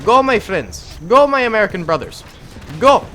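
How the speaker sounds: high mock battle call; playful rallying cry. Streamer urges on his American brothers, playful rallying cry.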